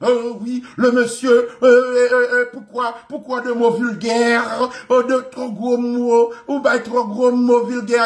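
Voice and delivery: half-hearted posh French voice; mock proper French speaker. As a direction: play a scandalised French snob, lightly. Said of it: "Vin propose ou te parler français".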